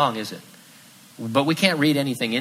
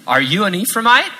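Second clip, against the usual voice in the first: loud, high challenge of a stranger; demanding challenge; 8 semitones higher, 7 dB louder than usual. Retold or imitated. A guard at the river loudly demands who the man is. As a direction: bark out the question at the fugitive.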